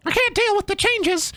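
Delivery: high, far-off tormented monologue; spooky villain voice. Pretend. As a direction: ham up a cursed creature. Same villain voice again.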